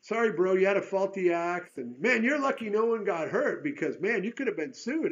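loud, high, breezy brush-off; mock flippant borrower; careless excuse. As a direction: shrug off losing a borrowed axe. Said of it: "it would be real easy to say".

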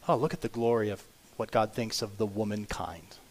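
awed hushed whisper. Real, not acted. Preacher to church on God's view of women, whispered. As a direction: drop to a whisper of wonder.

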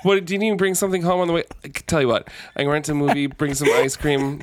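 judge texting wife. Acted. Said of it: "the judge has been texting his wife".

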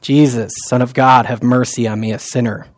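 soft, low, prayerful murmur; hushed, fading Jesus prayer; quiet prayer. Shown as a demonstration. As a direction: pray it softly to yourself. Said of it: "which I say to myself often".

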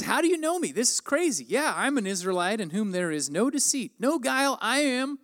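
pitched high, wide-eyed disbelief; stunned and excited; astonished. Acted. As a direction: react like you've just been read like a book. Nathaniel astonished, Jesus knows him.

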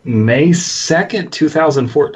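slow creepy read. Acted. Friend takes over creepy reading.

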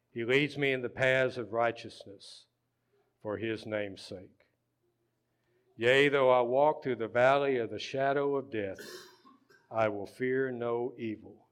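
deliberate scripture reading with pauses; slow Psalm reading. Real, not acted. Pastor reading the Psalm to his congregation, deliberate. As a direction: read phrase by phrase, unhurried. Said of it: "We're just gonna read it slow".

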